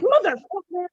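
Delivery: mildly imitating snapping at the table; lightly voiced fed-up swear; fed-up outburst. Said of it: "'cause I was just so fed up".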